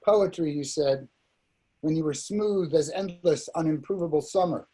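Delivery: measured recital, line by line; poetry reading. Acted. Poet reads Night to listeners, measured poem recital. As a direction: lift the openings of phrases and let them fall.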